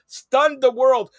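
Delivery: STUN THE WORLD drawn out slowly; slow, emphatic repeat of "Stun the world"; emphatic hype. Real, not acted. Hyping Marty's soccer show debut, slow and emphatic.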